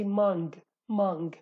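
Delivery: mang with the final g clearly sounded, mang-g; Hawleri pronunciation. Shown as a demonstration. Teacher shows how Hawleri speakers say mang, ending on a hard g. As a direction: say mang in Hawleri Kurdish, release the g at the end. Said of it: "if you read this in Hawleri accent".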